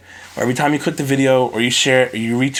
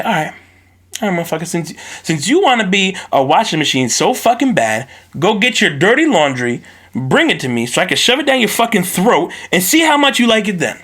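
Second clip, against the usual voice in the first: furious parent; 5 semitones higher than usual. Retold or imitated. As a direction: scold the kid as an enraged parent. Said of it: "And then I'm gonna say".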